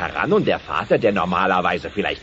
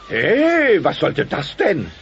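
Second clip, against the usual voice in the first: startled protest; 11 semitones higher, 4 dB louder, much slower than usual. Acted. Roy hit by Earl.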